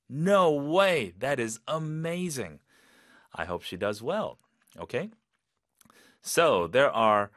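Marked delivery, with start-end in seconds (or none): 0.1-2.6 high "no way", then slow emphatic praise; excited amazement. Shown as a demonstration. Teacher reacting to Harvard acceptance, excited and amazed. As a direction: show you're thrilled for her. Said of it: "느낌 그대로 표현하시면 돼요".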